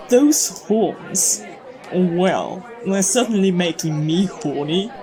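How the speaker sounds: breathy whispered aside. Acted. A fan whispering about the actor's horns. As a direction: whisper it like a secret craving.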